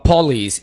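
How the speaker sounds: "police" as po-LEES; "police" carefully, long final vowel; correct pronunciation demo. Shown as a demonstration. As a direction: model "police" with an o in the first syllable. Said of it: "इसको पुलिस नहीं बोलना".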